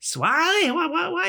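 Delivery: very high, baffled Canadian; impersonated Canadian accent. Retold or imitated. Canadian driver still not understanding, hammed-up accent. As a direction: squeal confusion in a mock Canadian voice. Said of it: "his impersonation of a Canadian".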